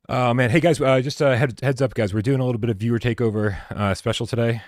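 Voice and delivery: loud, high hype to the chat; excited announcer. Acted. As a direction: pump up the viewers. Stream announcement to viewers.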